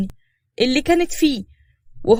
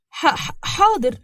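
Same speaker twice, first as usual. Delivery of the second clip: slow, higher, stuttering assent; nervous stammer; 6 semitones higher, much slower than usual. Acted. Mother giving in to pressure to call the friend, nervous stammer. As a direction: stumble haltingly over the first sound. Flustered reply to angry relative.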